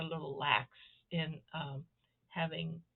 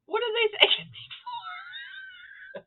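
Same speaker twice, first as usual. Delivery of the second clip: baffled; 5 dB louder, slower than usual. Retold or imitated. Baffled retold thought, laughing.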